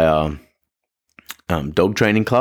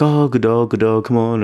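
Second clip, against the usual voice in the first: put-on higher, half-hearted baby talk to a dog; attempted girl voice; 6 semitones higher than usual. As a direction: fumble a higher-pitched girl voice praising the dog. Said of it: "with that girl voice, that baby voice".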